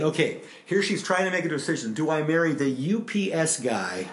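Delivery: mock dreamy wonder. Pastor voices Kate's imagined dilemma.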